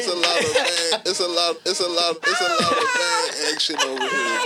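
high, loud hammed-up Italian; loud cartoon Italian mobster; fake Italian accent. Mock Italian banter.

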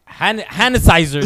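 "Han-, sanitizer" squashed into one word, Dominican style; laughing while mimicking mom's "hanitizer"; Dominican accent. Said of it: "said it in a Dominican accent".

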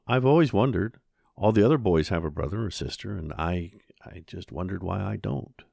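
put-on a curious boy asking his mother; lightly voiced young boy. The boy Peppy voiced in dialogue.

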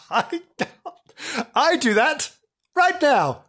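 high, gleeful boast. Acted. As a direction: brag it up high. Teller's joke in high voice.

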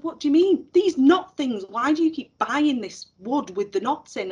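high, baffled questioning; mock puzzled pupil. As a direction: sound genuinely confused by the knots. Girl's puzzled retort retold.

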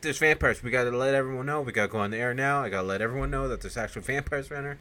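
fast, loud and high urgent rush; urgent alarm. Retold or imitated. Vincent rushing in to warn everyone about vampires, fast urgent. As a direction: rattle it off, desperate to warn.

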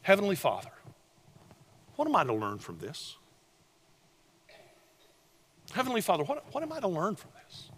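quiet, humble asking; humble prayer. Retold or imitated. Preacher models a soft, humble prayer to the congregation. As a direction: pray it softly, searching. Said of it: "I wanna offer you one simple question".

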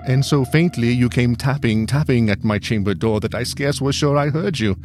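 high, hurried apologetic speech; nervous apology. A narrator's reading. Narrator apologising to the unseen visitor, high and hurried. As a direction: apologise fast and high, half afraid.

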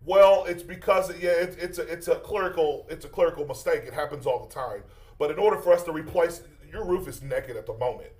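flustered fake roofer on the phone; prank caller voice. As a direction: bluff through the excuse.

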